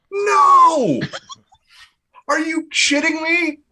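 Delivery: high, loud, laughing disbelief; shrieking laugh of disbelief; laughing outburst. Real, not acted. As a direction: burst out laughing at the idea.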